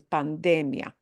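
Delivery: pandemia stressed on "de"; stress on the middle syllable. Shown as a demonstration. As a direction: punch the "de" in pandemia. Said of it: "a little different emphasis".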